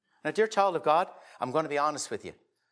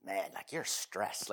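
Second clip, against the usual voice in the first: slow, soft, soothing thought; calming inner voice; 6 semitones lower, 11 dB quieter, slower than usual. Retold or imitated. Preacher voicing his own thoughts to his brother, slow and soothing. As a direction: talk yourself down gently. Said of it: "This is what I'm thinking in my brain".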